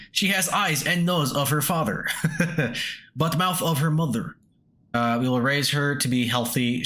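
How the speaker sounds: put-on reading an old man's journal in a light Russian accent; a hint of a Russian father writing his diary. Player voicing the old miner's journal in a light Russian accent. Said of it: "He writes in a Russian accent".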